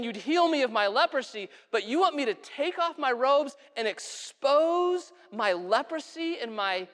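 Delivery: offended big shot listing his grievances; angry protest. Acted. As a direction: act out wounded pride. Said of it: "he gets angry. He gets upset".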